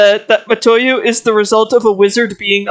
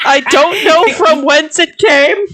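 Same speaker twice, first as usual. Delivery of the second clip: sheepish innocent; 5 semitones higher than usual. Retold or imitated. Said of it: "that's totally how she talks now".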